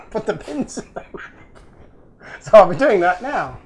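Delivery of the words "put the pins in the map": higher, small put-on echo voice; playful echo. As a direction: echo the catchphrase back in a silly high voice.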